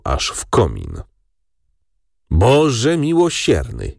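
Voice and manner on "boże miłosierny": slow wailing "Boże miłosierny"; aunt moaning slowly to heaven; moaning lament. Acted. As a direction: groan it out like a put-upon aunt. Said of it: "jęknęła ciotka".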